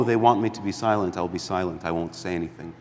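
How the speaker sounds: mock resigned tone that drops to near silence; fading into silence. A timid believer giving up on prayer, fading quiet. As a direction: let the voice sink away as you give in. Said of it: "How often do we say".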